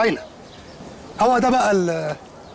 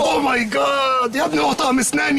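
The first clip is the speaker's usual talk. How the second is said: shocked exclamation; 3 semitones higher than usual. Acted. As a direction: stretch out the disbelief. Reacting to absurd phrase.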